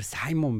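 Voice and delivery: "Simon" said the English way, SAI-mon; English pronunciation. Shown as a demonstration. Anchor settling on the storm's name, "Simon" in English pronunciation. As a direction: stress the "sigh" sound opening "Simon". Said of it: "como se pronuncia en inglés".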